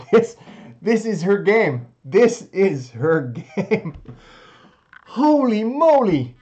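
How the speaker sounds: loud laughing high squeals; giddy, breathless celebration; shrieking jackpot winner. Real, not acted. Celebrating the win.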